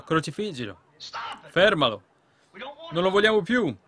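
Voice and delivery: mock crowd outcry, building in pitch and volume; crowd's cry, imitated. Preacher voicing the crowd against Jesus, a retold cry. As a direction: cry it out like a rejecting mob, moderately. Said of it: "Cosa gridò il mondo? Cosa gridò la Chiesa?".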